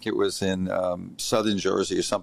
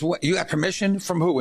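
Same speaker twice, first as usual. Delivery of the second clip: higher, sharp disbelieving question; mock indignant surprise; 8 semitones higher than usual. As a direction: act out her shock. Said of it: "she says".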